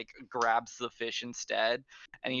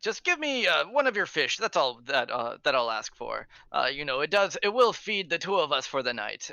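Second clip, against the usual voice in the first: put-on drunk guard's request; 3 semitones higher than usual. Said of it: "he's like".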